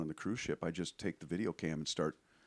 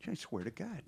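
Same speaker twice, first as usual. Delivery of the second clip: exasperated tourist; 9 semitones higher than usual. Retold or imitated. Comic pressing locals about reggae.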